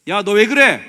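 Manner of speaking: sudden loud, high rebuke; scolding outburst. Acted. Preacher acts out how the Lord would not scold, shouted rebuke. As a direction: explode into a scolding. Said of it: "야단치시기보다는".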